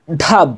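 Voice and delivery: ধাপ as one syllable with d and h merged; fuse the h into the start of ধাপ; joined aspirate. Shown as a demonstration. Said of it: "এরকম উচ্চারণ হবে". (ধাপ, হা মিলিয়ে একসাথে)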